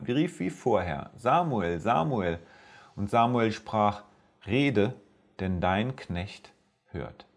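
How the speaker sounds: measured, solemn scripture reading to listeners; Bible story reading. Acted. Preacher reading First Samuel to his podcast audience, solemn reading.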